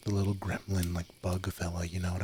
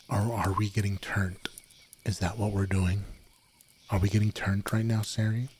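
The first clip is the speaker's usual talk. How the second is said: ASMR whisper. Acted. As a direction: whisper it close, ASMR style. Whispered ASMR stream chatter.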